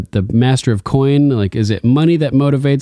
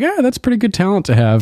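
mock High Sparrow; 9 semitones higher, faster than usual. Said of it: "He's just like".

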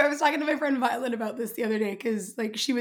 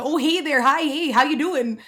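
quick run of Canadian-accented greetings; louder, chirpy Canadian hello; 3 dB louder, slower than usual. Shown as a demonstration. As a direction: lay on a friendly Canadian accent. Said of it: "your Canadian friend who probably has".

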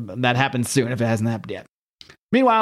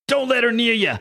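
menacing Thing voice; 9 semitones higher than usual. Retold or imitated.

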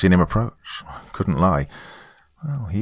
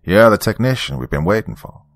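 put-on old country reverend welcoming a newcomer, Southern accent; strong country accent; 3 semitones higher, 5 dB louder than usual. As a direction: greet him like a folksy Southern preacher. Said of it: "in a strong country accent".

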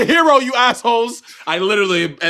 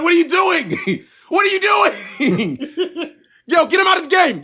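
high, slow, laughing shouts; laughing exasperated yell; 13 semitones higher, slower than usual. Retold or imitated. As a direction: yell at the screen through laughter. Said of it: "I'm like".

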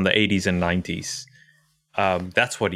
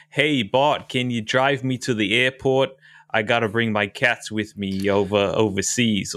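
New York Milhouse voice. Retold or imitated. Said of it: "New York Milhouse".

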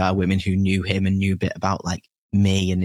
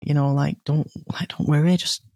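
a hint of the dad kindly calming her, higher; gentle reassurance; 5 semitones higher than usual.

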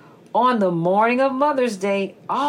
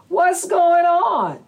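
little snake voice; 10 semitones higher, 5 dB louder than usual. Acted. Snake asks skunk.

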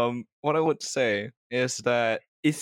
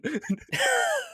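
villain laugh. Pretend. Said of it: "you do the evil laugh".

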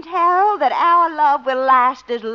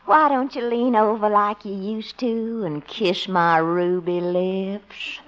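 coaxing; 5 semitones lower than usual. Acted. Girlfriend coaxing a kiss.

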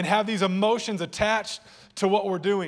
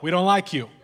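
teasing laugh; 5 dB louder than usual. Real, not acted. Joke to cheerful people.

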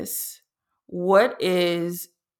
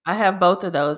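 clearer, more projected repeat; repeated to be heard. Real, not acted. Host answering "What was that?", repeated clearly. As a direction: say it again plainly so they catch it. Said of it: "What was that?".

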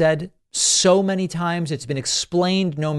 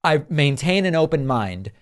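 normal talking voice

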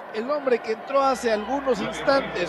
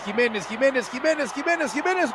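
excited commentary; 3 dB quieter than usual. Real, not acted. Build-up to goal.

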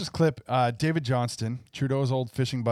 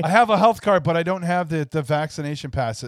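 louder, pleading; mock pleading fire; 6 dB louder than usual. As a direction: beg to cross the border. Fire pleading at border skit.

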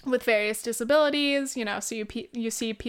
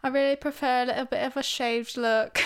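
put-on light British accent; 2 semitones higher than usual. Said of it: "That's my fucking British accent".

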